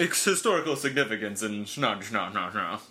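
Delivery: lightly snooty, upper-crust mock tone; a touch of a stuck-up snob. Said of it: "That was a nice snooty voice".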